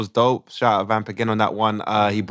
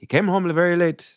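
put-on Ugandan accent; 6 semitones higher than usual. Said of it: "we do it in a Ugandan accent".

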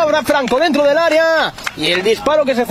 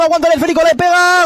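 rising excitement; 5 semitones higher, faster than usual. Real, not acted. Shot building to goal.

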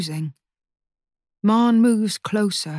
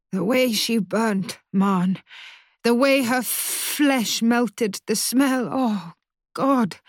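distraught; 3 semitones higher, slower than usual. Acted. Distraught mother recalling the burning.

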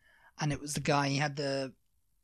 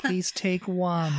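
sing-song sign voice; 4 semitones higher, much slower than usual. Retold or imitated. Mocking the trusting sign.

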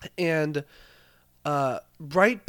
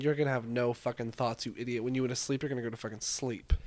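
voice of the meds; 4 semitones lower, 6 dB quieter than usual. Retold or imitated. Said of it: "They're saying".

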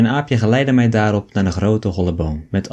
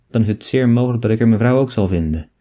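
usual speaking voice

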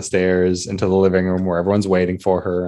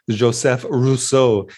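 put-on French accent; 4 semitones higher, much slower than usual. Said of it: "but with a French accent".

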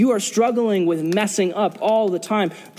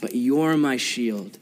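prayerful calling out; 4 semitones lower than usual. Retold or imitated. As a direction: pray it lower and unhurried, addressing God. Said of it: "He calls out to the Lord".

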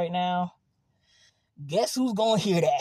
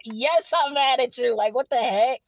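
retold exasperation; 6 semitones higher, 6 dB louder than usual. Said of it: "I'm like".

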